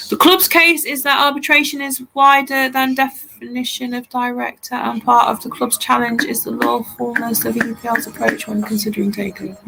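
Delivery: even, monotone read-out; reading aloud. Real, not acted. Relaying Dom's information on the arbitration, read aloud. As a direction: read the case notes out evenly. Reads out information sent by colleague.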